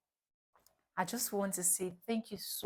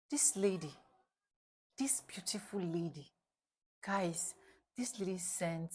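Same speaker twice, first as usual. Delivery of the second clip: whisper; 6 dB quieter than usual. Real, not acted. Building suspense before the reveal.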